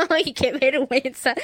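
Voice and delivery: slow, amused "Ay, qué vergüenza" with a laugh behind it; light laughing cringe; embarrassed but laughing. Retold or imitated. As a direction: shrug off the shame with a chuckle. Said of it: "Pero te ríes".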